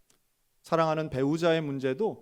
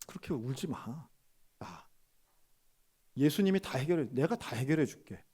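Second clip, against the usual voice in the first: softer comforting. Retold or imitated. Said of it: "조금 부드럽게 표현을 한다면".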